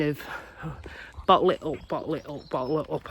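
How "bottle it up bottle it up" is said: softer repeat, holding it in; quieter, pressing it down. Shown as a demonstration. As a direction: say it quieter each time, bottling it. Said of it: "like an explosion".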